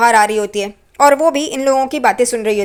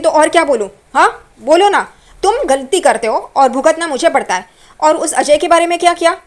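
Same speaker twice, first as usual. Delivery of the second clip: higher, louder nagging retort; heated quarrel; 5 semitones higher, 5 dB louder than usual. Retold or imitated. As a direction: throw it back at him. Roshni quarrels with Tejas. (पति से झगड़ती हुई ऊँची आवाज़ में)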